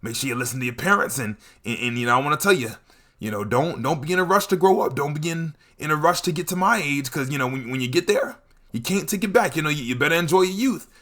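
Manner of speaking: lightly voiced elder lecturing a young buck; mock wise uncle advice; old head advice. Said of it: "walk up to me and hit me with that".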